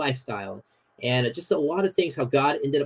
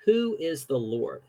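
Pharaoh quoted slowly; slower than usual. Retold or imitated. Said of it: "Pharaoh says".

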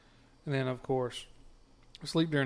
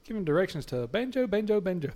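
a lightly voiced, higher phone assistant; robotic Siri voice; 6 semitones higher than usual. Siri mishearing the address, in a lightly voiced robot tone. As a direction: repeat it like a stuck machine. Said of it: "Siri says".

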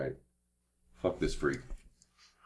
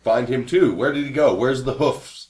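higher-pitched in-character questioning; urgent questioning; 6 semitones higher, 8 dB louder, slower than usual. Acted. Brother to whispering man about the hoof man, urgent questioning. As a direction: press the stranger with eager questions.

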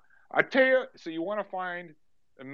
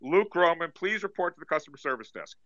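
public address announcer voice; store PA announcer; 5 dB louder than usual. Acted. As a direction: page the shoppers like a store PA.

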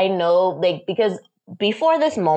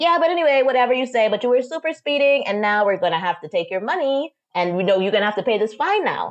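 higher-pitched, brush-off imitation of a cop; mock dismissive officer; 5 semitones higher, faster than usual. Officer demanding payment from the driver, mock dismissive. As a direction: talk over the objection, mockingly insistent.

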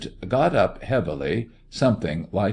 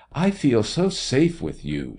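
higher-pitched, lightly voiced tender murmur; 5 semitones higher than usual. A narrator's reading. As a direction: murmur it sweetly, pitched up, to a lover. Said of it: "she murmured".

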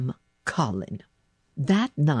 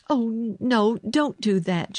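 higher-pitched anxious plea; crying out; 7 semitones higher, slower than usual. A narrator's reading. Girl afraid her secret will be spoiled, anxious outcry. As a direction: protest with a touch of alarm. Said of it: "she cried".

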